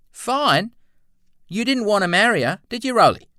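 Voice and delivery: very high, incredulous questioning; dubious. A narrator's reading. Clyde doubting that Roland wanted marriage, high and dubious. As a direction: query it high, loud and quick.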